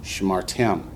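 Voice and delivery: Shmartem, sh gliding straight into mar; short first syllable. Shown as a demonstration. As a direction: cut the first vowel from Shmartem. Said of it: "makes it a short syllable".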